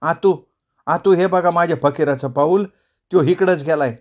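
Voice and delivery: excited cry. Acted. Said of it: "ती एकदम ओरडली".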